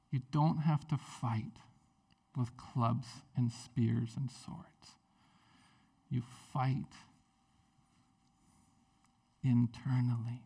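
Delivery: slow, softened, deliberate words; gentle counsel. Acted. Jesus counselling Peter not to fight, gently. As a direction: counsel softly, leaving long pauses.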